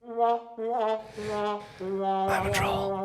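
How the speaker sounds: very soft mock-guilty whisper; secretive whisper. Confessing to co-host about producer, mock-guilty whisper. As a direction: own up under your breath.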